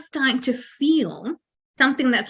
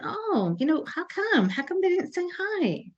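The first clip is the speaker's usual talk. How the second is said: higher, softer wounded inner voice; a small plaintive complaint to yourself; hurt self-pity; 7 semitones higher, 6 dB quieter than usual. Retold or imitated. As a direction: sulk it as if slighted. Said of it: "you're thinking".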